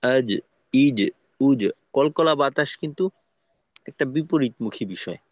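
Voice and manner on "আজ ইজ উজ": আজ, ইজ, উজ with a clean bounced জ, air held back; jim without airflow. Shown as a demonstration. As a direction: say আজ, ইজ, উজ from mid-tongue, no escaping breath. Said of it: "মাঝ বরাবর থেকে উচ্চারণ করা". (আজ, ইজ, উজ বাতাস ছাড়া, জিহ্বার মাঝ থেকে)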